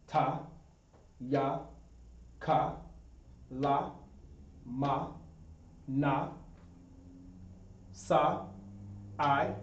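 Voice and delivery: each letter called out softly with pauses; alphabet recited. Shown as a demonstration. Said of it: "the alphabet again in the Assyrian".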